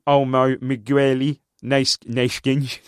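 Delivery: lightly attempted Spanish accent. Shown as a demonstration. Cohost reads Barcelona names on request, light Spanish accent. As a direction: have a slow go at Spanish names. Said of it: "best Spanish accent".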